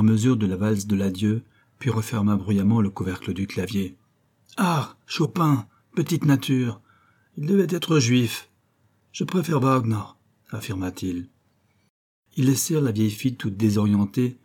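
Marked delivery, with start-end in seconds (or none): 4.6-10.0 slow, higher scornful German officer; haughty SS officer scoffing; disdainful officer. Acted. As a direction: sneer at the music like a brute officer. SS officer voiced in story.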